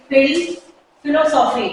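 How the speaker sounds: फिल and फिलोसॉफी started on f; teeth-on-lip f in फिल, फिलोसॉफी; careful f, no Hindi ph, in फिल, फिलोसॉफी; English f sound. Shown as a demonstration. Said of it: "फा होता है".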